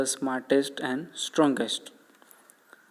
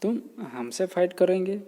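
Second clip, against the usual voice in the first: mock lion surprise; 6 semitones higher than usual. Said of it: "जो lion है वो बोलता है कि".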